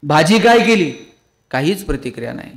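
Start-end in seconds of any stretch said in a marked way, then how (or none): 0.0-0.9 louder call. Retold or imitated. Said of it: "हॉलमध्ये गेला".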